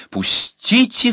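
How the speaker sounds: high, slow cry of alarm; high frightened cry to be released; sharp cry. A narrator's reading. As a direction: cry out to be let go. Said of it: "вскрикнула Анна".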